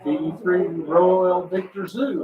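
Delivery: distant station through radio interference; fading shortwave radio. Real, not acted. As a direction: voice breaking up in static. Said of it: "I have some Q R M on you".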